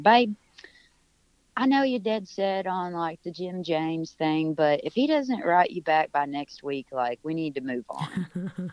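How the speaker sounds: mock British accent. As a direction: imitate a British friend, lightly put-on British accent. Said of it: "that was my British accent".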